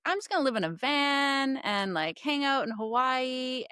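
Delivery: lightly voiced carefree kid; imitating oldest daughter. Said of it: "my oldest daughter's like".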